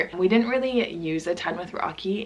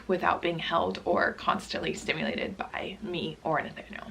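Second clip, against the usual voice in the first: voice fading; 5 dB quieter than usual. Real, not acted. Tired mom explaining baby bouncer to viewers, voice fading. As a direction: voice trailing down into a near whisper. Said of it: "my voice is just going slowly down".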